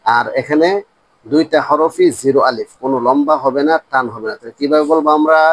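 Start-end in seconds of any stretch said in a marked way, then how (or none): none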